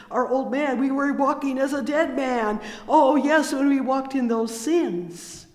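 loud, high, ringing preacher's cry; full-voiced revival preaching; fervent preaching. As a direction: preach it out full force to the congregation. Preaching rises to full force.

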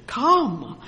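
a strong, loud summons to come; Jesus calling Peter out of the boat, loud summons. Acted. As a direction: call him out of the boat, loud. Jesus bids Peter again.

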